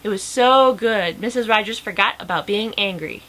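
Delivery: animated read-aloud with lively character lines; lively storybook reading; story narration. A narrator's reading. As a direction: read a picture book aloud, lifting the dialogue.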